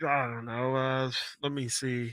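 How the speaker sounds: put-on warm up as a hushed old-time announcer; old-school announcer voice. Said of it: "my old-school commentary voice".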